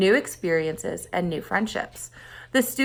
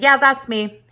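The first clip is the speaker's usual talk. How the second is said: flustered reply; 5 semitones higher, 6 dB louder than usual. A narrator's reading. Victor flustered by Teresa.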